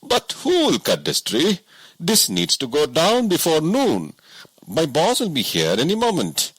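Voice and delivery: a simple woodsman who can't believe it; woodcutter voice. A narrator's reading. Woodcutter worries about his boss.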